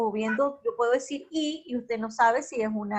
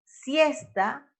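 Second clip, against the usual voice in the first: "siesta" with the force on first "sies"; stress on penultimate syllable; 2 semitones higher than usual. Shown as a demonstration. Teacher gives an example of graves, "siesta" stressed on "sies". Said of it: "el acento fonético recae sobre la penúltima sílaba".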